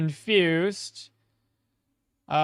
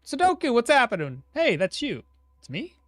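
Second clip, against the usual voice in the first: eating soup; 8 semitones higher, 6 dB louder than usual. Real, not acted. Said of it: "sorry, I'm eating my soup".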